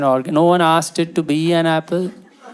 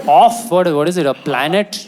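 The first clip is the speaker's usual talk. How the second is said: mocking disbelief; 3 dB louder than usual. Mocking the word off.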